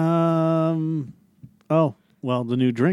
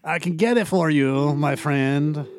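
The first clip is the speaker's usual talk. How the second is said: put-on French accent. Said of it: "the French guy in the Mexican beach impression".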